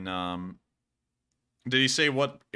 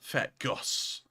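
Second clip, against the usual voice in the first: playful whispered echo; soft, voiceless repeat; 6 dB quieter than usual. Pretend. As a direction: whisper the nickname back like a little refrain. Echoing the squirrel's nickname playfully.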